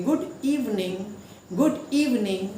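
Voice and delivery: गुड इवनिंग with the first syllable of इवनिंग punched; stress on first syllable. Shown as a demonstration. Teacher modelling stressed greeting for students. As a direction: hit the start of इवनिंग. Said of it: "उस पे हम जोर देंगे, stress देंगे".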